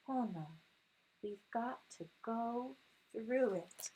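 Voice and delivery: sing-song picture book rhythm; storybook read-aloud. Acted. Mother reading a picture book to her son, sing-song.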